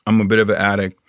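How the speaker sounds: talking while chewing gum; words round a wad of gum. Real, not acted. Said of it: "I just put gum in my mouth".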